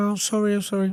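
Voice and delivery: tearful, weeping, blubbering voice. Retelling how a tied-up lad apologized: imitating someone crying. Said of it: "he's crying".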